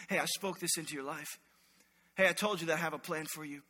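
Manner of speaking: low, soft and reassuring; tender reassurance. Acted. God reminding you in dark moments, soft reassurance. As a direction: gently remind someone they are loved.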